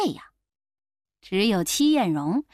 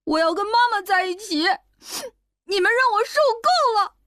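put-on high, tearful boy's voice, sobbing; a boy weeps and threatens his father; crying child; 11 semitones higher, faster than usual. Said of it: "边哭边说". (小男孩边哭边说，声音尖高带哭腔)

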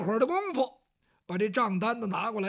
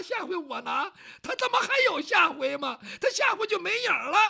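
higher, heated, shouting at times; indignant rant; 6 semitones higher than usual. Acted. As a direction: rail against the cheat. Servant ranting about the swindler.

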